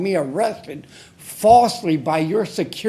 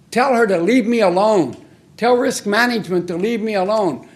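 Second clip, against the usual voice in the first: louder, forceful demand; angry demand; 3 dB louder than usual. Real, not acted. Disabled citizen demanding council stop harassment, forceful. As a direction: insist hard, fed up.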